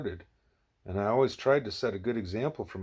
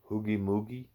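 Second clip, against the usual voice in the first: puzzled echo. Acted. Ishmael echoes the phrase back.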